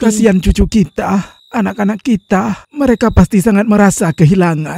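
loud lament for the family; emphatic pity. Acted. Grandfather frets loudly about grandchildren left behind, emphatic lament. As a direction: call out your worry for them.

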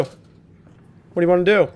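slow, mocking challenge; drawn-out taunt. Taunting the monster in the game, slow and mocking. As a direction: stretch each word out to taunt.

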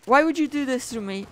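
Oh no, no, no, no!; crying with rage. Real, not acted. Game blocks setup, anguished outburst.

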